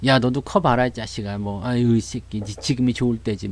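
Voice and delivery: low, soft parental grumble; muttering parent. Retold or imitated. Parent reacting to a rebellious kid, low resigned grumble. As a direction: grumble under the breath at a child. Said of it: "애기들이 반항을 하거나".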